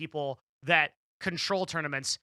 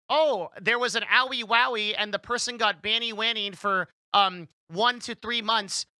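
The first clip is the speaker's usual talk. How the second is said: put-on higher, louder cutesy baby voice, slowing on the end; mock baby talk; 4 semitones higher, 4 dB louder than usual. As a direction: coo it like a mocking baby-talk meme. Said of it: "Twitch talks in, like, baby talk memes".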